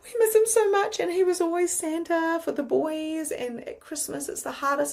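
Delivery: high-pitched mock weepy wail, subsiding gradually; imitated crying. Friend grieving her dad who played Santa, imitated crying. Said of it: "she started crying".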